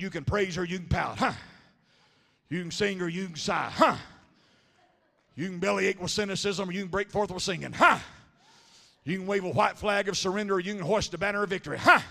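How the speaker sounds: rhythmic preaching with a punched huh; Pentecostal one-liners. Retold or imitated. Preacher retelling his Sunday one-liners, punching each huh. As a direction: rattle off lines like rapid bullet fire. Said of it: "I'd put a Pentecostal huh in between".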